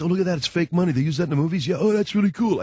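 imitating excited kids; mock excited kids. Telling the radio audience how the kids gushed over fake money, excited. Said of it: "the kids were all jazzed".

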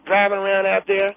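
Clara Bingham voice. Acted. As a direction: play a cranky old caller. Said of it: "that was me doing her voice".

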